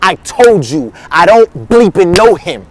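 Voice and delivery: mock cursing, each word leaned on; emphatic denial. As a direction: deny it slowly, as if swearing. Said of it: "as if Peter was cursing".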